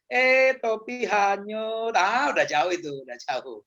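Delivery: drawn-out, slow, unbothered reply; lazy slow voice of a calm person; mock slow reaction. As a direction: act the slow one who notices too late. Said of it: "slow ya".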